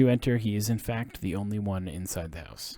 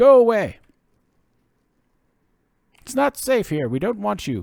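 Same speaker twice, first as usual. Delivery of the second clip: put-on nervous old man voice, very high, very loud; 13 semitones higher, 11 dB louder than usual. A narrator voices a man behind a door telling visitors to stay away, anxious nervous old man. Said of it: "the anxious and nervous voice of an elderly man".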